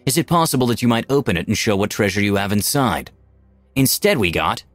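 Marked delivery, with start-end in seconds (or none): 0.0-3.1 lightly voiced elegant lady; courtly noble speech. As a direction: speak with grace like at a royal ball. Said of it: "She wanted to say".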